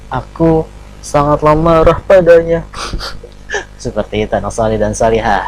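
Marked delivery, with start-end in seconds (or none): 0.1-2.6 anger line said with a mismatched, unangry tone; wrong intonation for anger. Shown as a demonstration. Teacher showing pupils the unsuitable intonation, mismatched unangry tone. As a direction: recite the angry line without real anger, about to laugh. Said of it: "Tapi masa begini".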